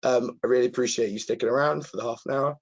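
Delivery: hoarse, croaky throat from a cold. Real, not acted. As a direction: speak through a croaky, sore voice. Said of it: "bearing with me with my very croaky voice".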